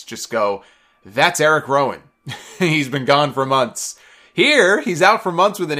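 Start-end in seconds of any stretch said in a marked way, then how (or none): 1.0-4.0 flat, bored announcer read; deadpan, zero enthusiasm; monotone voice. Retold or imitated. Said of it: "in the most unenthusiastic, monotone voice".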